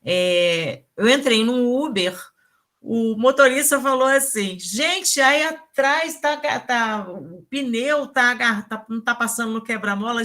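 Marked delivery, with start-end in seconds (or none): 4.6-10.2 retold alarm, raised and louder at the start; worried driver. Uber driver to his passenger about the tire, worried. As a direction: imitate a mildly alarmed driver. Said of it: "realmente preocupado com o carro".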